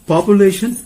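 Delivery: population said pap-yoo-lation, American style; American pronunciation. Shown as a demonstration.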